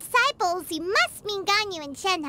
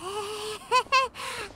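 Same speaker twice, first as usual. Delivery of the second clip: small awkward titter; nervous giggle; 4 dB quieter than usual. Acted. Guide approaching an adeptus stranger, nervous giggle. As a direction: giggle uneasily.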